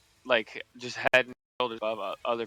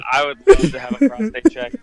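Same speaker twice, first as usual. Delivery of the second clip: much higher, louder mock eager patient; 11 semitones higher, 15 dB louder than usual. Quoting the patient who wanted the check, mock eager. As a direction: ham up how keen he was. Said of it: "when he says".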